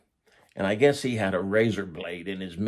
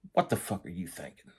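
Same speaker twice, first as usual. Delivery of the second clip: retold quiet anger; 2 semitones lower, 5 dB quieter than usual. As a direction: act out a boss angrily chiding under his breath. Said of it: "He's mad".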